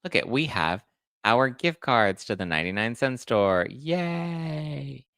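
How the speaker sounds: lightly hammed-up reality star; mock gushing celebrity. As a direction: gush like a star flaunting cheap gift cards. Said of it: "they're like".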